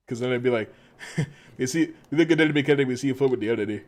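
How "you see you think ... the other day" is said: quick, loud mock Jamaican patter; Jamaican accent. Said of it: "trying very hard to not turn Jamaican".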